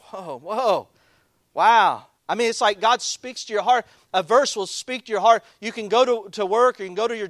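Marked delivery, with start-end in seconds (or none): 0.0-2.1 awed whoa rising to a loud wow; amazed wow. Retold or imitated. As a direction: let wonder burst out. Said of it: "And you're just like".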